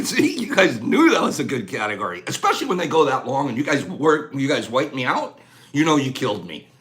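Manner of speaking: winded and low; out of breath. Real, not acted. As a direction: talk while catching breath. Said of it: "When Pops gets out of breath".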